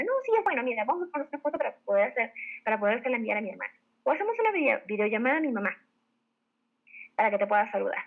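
confident, keen demo pitch; enthusiastic seller. Shown as a demonstration. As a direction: reassure brightly, then rush into the offer. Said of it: "con ese entusiasmo, con ese tono de voz".

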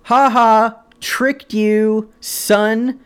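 high-pitched mock of a dad taunting his son; gloating dad. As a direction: rub it in like a schoolyard bully. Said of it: "And then you're like".

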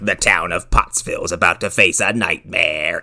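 trailer narrator. Retold or imitated. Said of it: "he's like".

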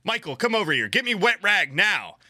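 high, urgent mock command; a little freaked out. Stewardess calls Michael for a wet rag, a little freaked out. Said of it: "a little freaked out".

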